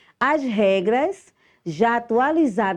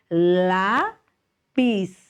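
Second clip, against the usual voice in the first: Lápis split slowly, strong LÁ; teacher's demo of Lápis, first syllable stressed. Shown as a demonstration. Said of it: "lá é a sílaba mais".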